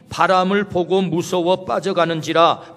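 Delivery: slow, 바람을 leaned on with a falling tune; stress on 바람을 보고. Shown as a demonstration. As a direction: dwell on 바람을 보고 as the key words. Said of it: "본문의 강조점은 바람을 보고입니다".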